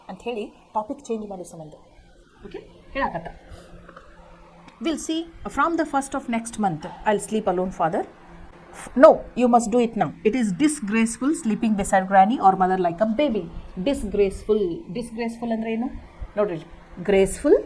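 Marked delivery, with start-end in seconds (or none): 4.8-13.4 deliberate storybook reading for a class; story read-aloud. A narrator's reading. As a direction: read each word out slowly for pupils. Teacher reads story text aloud.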